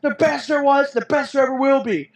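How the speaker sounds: hammed-up catchphrase brag; playful imitation of Bret's signature line; Bret Hart impression. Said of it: "he's like".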